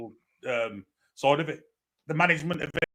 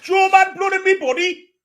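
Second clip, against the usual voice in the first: even higher, slower hammed-up German accent; mock German accent; 8 dB louder than usual. Fan repeating his joke, slower mock German accent. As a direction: stretch it out in a silly German voice.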